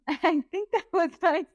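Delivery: high, put-on voice imitating a friend. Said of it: "you're like".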